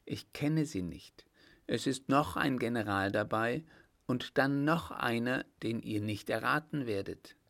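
a hint of secretive excitement; innkeeper's daughter, eager informant. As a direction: tease out the news to a waiting man.

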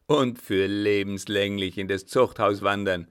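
loud, menacing taunt; fiendish gloating. Acted. Captain taunting the baroness with prison, gloating. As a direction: gloat with devilish relish. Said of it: "lachte er mit teuflischem Grinsen".

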